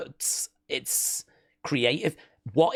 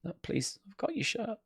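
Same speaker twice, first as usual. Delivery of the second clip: mock kid plea; 7 semitones higher, 10 dB quieter than usual. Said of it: "What a lovely kid".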